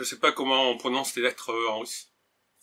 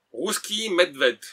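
slow, higher attempt at a Russian accent; 4 semitones higher, much slower than usual. Real, not acted. Vlogger reads the drink's Russian name, amateur Russian accent. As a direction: sound out the name slowly, Russian-style. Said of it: "désolé pour l'accent russe".

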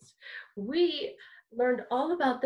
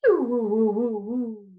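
louder wees sliding down to woos; wee then woo; 3 semitones lower, 4 dB louder, much faster than usual. Shown as a demonstration. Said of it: "Now try wee".

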